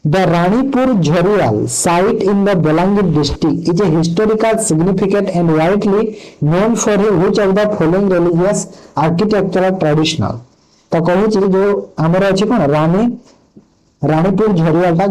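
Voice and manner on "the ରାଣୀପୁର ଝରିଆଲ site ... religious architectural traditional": slow, careful question read-out; reading a quiz question. Acted. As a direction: read each word out deliberately. Reads quiz question aloud slowly. (ଧୀରେ ଧୀରେ ପ୍ରଶ୍ନ ପଢ଼ିବା)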